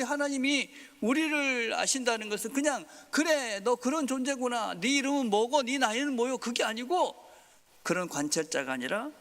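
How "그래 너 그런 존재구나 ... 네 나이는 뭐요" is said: mock detached observer. Voicing God as cold observer.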